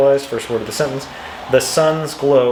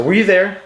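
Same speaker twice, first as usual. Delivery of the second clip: "Were you there?" asked higher, peaking on you; questioning intonation; 7 semitones higher, 4 dB louder than usual. Shown as a demonstration. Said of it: "asking something implies that the initial sentence".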